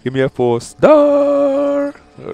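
loud demand rising to a high held wail; desperate demand. Real, not acted. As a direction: shout it, stretching the end sky-high. Desperate begging for four star.

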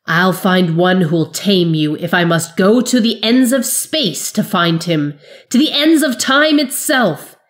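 loud, shaking threat; quavering fury. Acted. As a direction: let the rage tremble through the threat. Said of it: "the wizard's voice quavered with fury".

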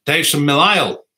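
Northern Irish way of saying Mill Isle; proudly saying Mill Isle as locals do; local pronunciation. Shown as a demonstration. Vlogger reads a viewer's town, local pronunciation. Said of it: "See, I pronounce it right".

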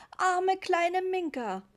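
high, loud, drawn-out lament; a child wailing over a beloved pet; wailing boy. A narrator's reading. Boy pities his drenched cat. (klagender Junge, laut und gedehnt)

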